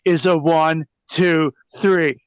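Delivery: mock wrestling promo voice; mock wrestler promo growl. Shown as a demonstration. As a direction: ham it up like a cheesy wrestler cutting a promo. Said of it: "wrestlers have this promo voice".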